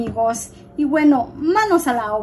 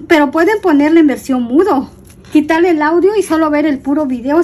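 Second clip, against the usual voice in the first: defensive rant; 4 dB louder than usual. Real, not acted. Defensive rant about voice critics.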